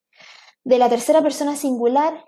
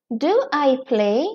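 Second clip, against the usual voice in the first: slow, careful classroom example; teacher modelling a question slowly; slow model sentence; much slower than usual. Shown as a demonstration. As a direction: lay each word out slowly for learners. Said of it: "teacher models example question".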